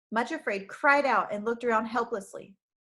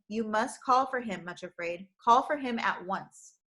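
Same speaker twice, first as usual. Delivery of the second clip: gently but firmly. Acted. Helper Sorrow urging the girl to call, gentle firmness. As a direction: urge her kindly but leave no doubt. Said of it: "said gently but firmly".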